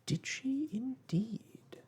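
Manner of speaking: slow, sympathetic hush. A narrator's reading. Mary Poppins consoling the caged bird, slow and hushed. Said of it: "nodding her head sympathetically".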